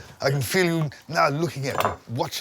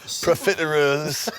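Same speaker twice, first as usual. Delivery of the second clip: Lancashire accent; 4 dB louder than usual. Shown as a demonstration. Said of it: "accent for certain words".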